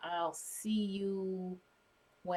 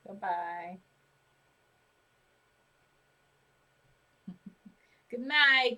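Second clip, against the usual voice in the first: laughing; slower than usual. Real, not acted. Laughing farewells to viewers.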